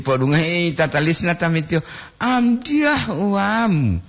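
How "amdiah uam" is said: very slow, higher, drawn-out heartfelt reading; with full feeling. Shown as a demonstration. Streamer reads a viewer's line aloud, very slow and heartfelt. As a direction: stretch out "Amdiah uam" slowly and higher, as if moved. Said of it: "dengan penuh perasaan aku".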